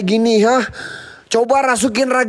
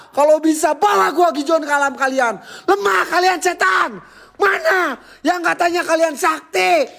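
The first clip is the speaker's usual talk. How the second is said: defiant taunting shout; 5 semitones higher than usual. Real, not acted. Vlogger dares the spirits in the haunted toilet, shouting defiantly. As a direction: dare the invisible ghosts to show themselves.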